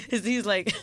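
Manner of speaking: ordinary talk, nothing marked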